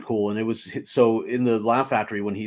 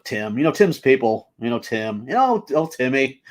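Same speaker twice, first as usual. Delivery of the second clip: louder, higher mock name-dropping; playing big shot; 4 semitones higher, 5 dB louder than usual. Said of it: "trying to be a big shot".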